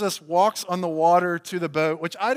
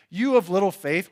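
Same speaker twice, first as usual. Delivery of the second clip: louder, higher rebuke; mock scolding, raised voice; slam; 4 semitones higher, 6 dB louder than usual. Shown as a demonstration. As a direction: demonstrate a harsh put-down. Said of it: "was not like a, a slam".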